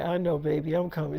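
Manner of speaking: low, soft reassurance to a partner; gently giving in; retold placating. Retold husband placating his wife.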